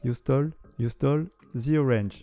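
chante les paroles traduites avec un faux accent texan, lentement; Texas accent. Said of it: "j'ai un accent américain du Texas". (accent texan exagéré pour rire)

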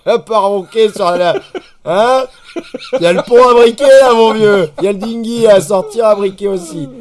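loud, high-pitched barking boat captain; Jaco. Retold or imitated. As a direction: holler deck orders at someone asleep. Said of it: "Et Jaco qui me fait".

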